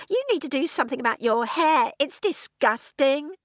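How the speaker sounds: put-on high, spiteful teenage sneer; furious hiss. A narrator's reading. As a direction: sneer at her clothes and hair. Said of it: "The voice was a furious hiss".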